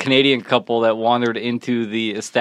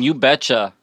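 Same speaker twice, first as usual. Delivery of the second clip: mock full-on Minnesotan catchphrase; Minnesotan accent. Host mocking mom and aunt, Minnesotan accent. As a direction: lightly mimic a Minnesotan relative's accent. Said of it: "laugh at my mom and aunt".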